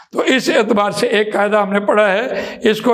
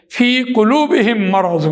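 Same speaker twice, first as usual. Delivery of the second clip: فی قلوبہم مرض recited a little slower; Quranic recitation; slower than usual. Shown as a demonstration. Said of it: "quotes Quran verse as example". (قرآنی قراءت کا انداز)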